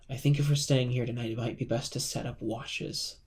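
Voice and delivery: slightly hushed, conspiring aside. Acted. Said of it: "in kinda like a huddle and a hushed tone".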